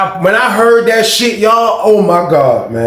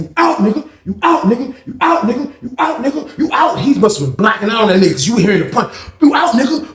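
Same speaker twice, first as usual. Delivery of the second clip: taunting; 6 semitones higher than usual. Retold or imitated. Chris while punching.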